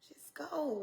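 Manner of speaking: breathy whispered echo. Acted. Preacher whispers the command back to the congregation. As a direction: hush it like a secret urging.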